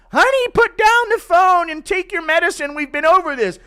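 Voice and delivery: very high, loud falsetto wife; weary wife. Retold or imitated. Wife tells her demented husband to take medicine. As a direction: scold him like a tired wife. Wife taking the phone away.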